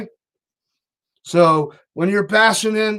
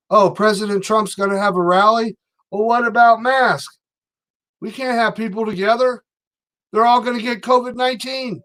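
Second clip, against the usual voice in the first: sarcastic, higher mock-fretful voice; higher sarcastic parody of a panicked critic; mocking the left; 5 semitones higher than usual. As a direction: play a pearl-clutching liberal, overdone. Mocking the far left's outrage.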